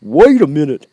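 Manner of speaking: loud call to stop them. A narrator's reading. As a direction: call out to halt everyone. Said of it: "called the Scarecrow".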